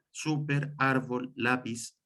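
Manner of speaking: SÚper, ÁRbol, LÁpiz, each hit on the first syllable; stress on first syllables. Shown as a demonstration. Teacher listing two-syllable examples, first syllable stressed in "súper, árbol, lápiz". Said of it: "van con el acento en la primera".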